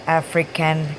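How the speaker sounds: African said distinctly in place of the game's name; wrong caption version. Shown as a demonstration. Quoting wrong YouTube captions to viewers, mistaken name. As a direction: say African clearly, as the mistaken word. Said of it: "some were".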